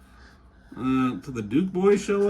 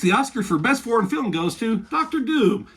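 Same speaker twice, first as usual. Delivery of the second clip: announcer read, pitched up and louder; mock awards presenter; 6 semitones higher, 4 dB louder than usual. Hosts announcing the winner, hammed-up presenter voice.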